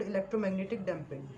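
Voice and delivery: very slow, deliberate English definition; slow term definition. Shown as a demonstration. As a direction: dictate it so students can write it down. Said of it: "This is called". (बहुत धीरे, साफ़ परिभाषा बोलना)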